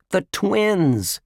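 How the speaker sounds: high-pitched exclamation; shouted realization. A narrator's reading. Dink and Ruth Rose guess the culprits, shouting together. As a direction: cry out as it dawns on you. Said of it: "shouted Dink and Ruth Rose".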